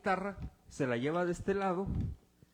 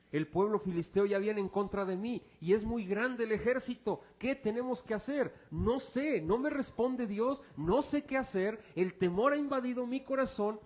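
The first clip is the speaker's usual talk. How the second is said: higher-pitched, urgent plea of a king at a loss; alarmed Saul; 5 semitones higher than usual. Acted. Saul tells his servants the Philistines are coming, alarmed. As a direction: act out Saul's mounting alarm. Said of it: "Entonces Saúl dice a sus criados".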